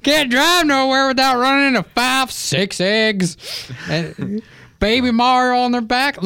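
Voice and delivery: high, loud cartoon Italian voice; hammed-up cartoon Italian accent; silly Italian accent. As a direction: do a goofy Yoshi-neighbor character with an Italian accent. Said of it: "what accent is that".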